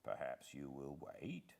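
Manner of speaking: a breathy whisper, barely voiced; hushed butler. Butler quietly asking the visitor to wait, whispered. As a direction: keep it low so no one hears.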